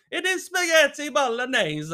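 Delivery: high, emphatic mock insistence; put-on protesting voice; defensive missus. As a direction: mimic a partner digging in, pitched right up. Acting missus insisting again.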